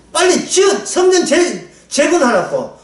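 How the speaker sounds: mock prophet yelling to build; urging shout. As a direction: hurry them along, shouting.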